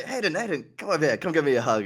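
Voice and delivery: high, eager call to a friend; eager calling over. Retold or imitated. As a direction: wave him back over, apologetic. Calling Hayden back over.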